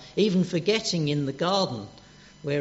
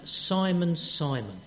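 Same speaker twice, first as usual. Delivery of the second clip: affectionate call; slower than usual. Retold or imitated. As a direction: say his name like a gentle hand on the shoulder. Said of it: "don't you feel that same affection".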